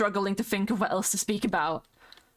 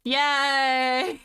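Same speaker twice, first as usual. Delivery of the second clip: excited yay; 4 semitones higher, 4 dB louder than usual. Real, not acted.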